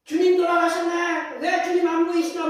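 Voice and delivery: drawn-out high mock wail of grief; wailing lament. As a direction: wail it like a mourner at a grave, slowly. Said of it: "통곡하듯이".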